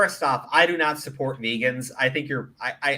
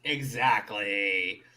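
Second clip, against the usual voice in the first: laughing agreement; 2 semitones lower, 3 dB quieter, much slower than usual. Real, not acted.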